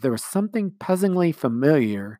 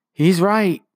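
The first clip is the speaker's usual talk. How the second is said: sweetly; 9 semitones higher, 10 dB louder than usual. A narrator's reading. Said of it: "Jane said sweetly".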